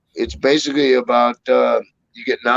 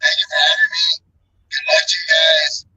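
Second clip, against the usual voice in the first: robotic voice; 9 semitones higher than usual. Real, not acted. Bad mic continues.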